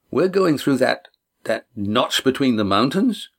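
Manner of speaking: a touch of nerves, question rising; mildly uneasy at the narrow gap; somewhat nervous. Acted. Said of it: "Damon asked somewhat nervously".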